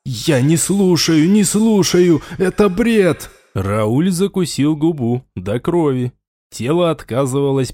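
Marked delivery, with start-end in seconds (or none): 0.0-1.3 louder, higher, slowed refusal; raised denial. Acted. Raul shouts down the voice in his head, rising. 1.3-3.3 higher and louder, near a yell; panicked shout. Acted. Raul yells at the voice in his head, panicked.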